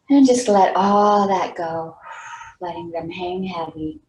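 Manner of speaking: unhurried meditation guide, pausing between phrases; guided meditation. Real, not acted. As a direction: lead them gently into relaxation, leaving long pauses. Leads a meditation.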